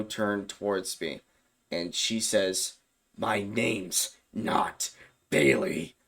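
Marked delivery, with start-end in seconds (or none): 3.2-6.0 demon voice. Retold or imitated. Possessed Bailey denying her name to him, in a slow demon voice. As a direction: drag it out like something else is speaking.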